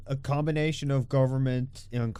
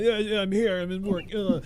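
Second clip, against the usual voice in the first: mock work voice; 9 semitones higher, 3 dB louder than usual. Mock answering work call.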